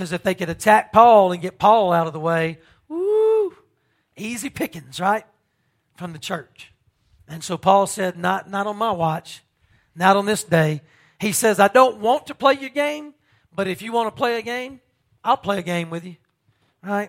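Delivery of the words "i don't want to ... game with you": play-acted, heavy, pointed sarcasm. Retelling a man's answer to those who wanted to attack him, very sarcastic. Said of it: "Very sarcastic".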